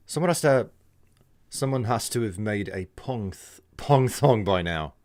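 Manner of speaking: British accent attempt. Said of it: "come off as a little bit like an Aussie instead".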